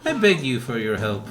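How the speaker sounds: Granny. Acted. Granny begging a hunter to deal with the Tigrex, granny voice. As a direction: plead for help as a village granny. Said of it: "the good Granny voice".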